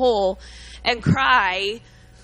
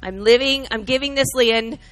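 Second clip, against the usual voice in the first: commanding Moses; 7 dB louder than usual. Acted.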